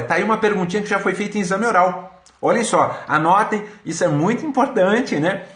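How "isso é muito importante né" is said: talking through sore lips from braces; speaking carefully, braces rubbing lips; braces hurting lips. Real, not acted. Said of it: "o aparelho tá machucando muito meu, meus lábios".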